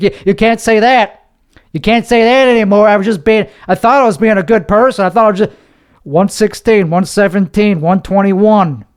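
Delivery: half-yelled nervous protest; worked-up yelling. Real, not acted. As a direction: get worked up, voice climbing. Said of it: "there's no reason to yell".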